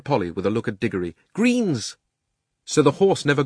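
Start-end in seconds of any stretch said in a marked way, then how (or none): 1.3-2.0 urgent call. A narrator's reading. Polly's urgent signal to Diggory.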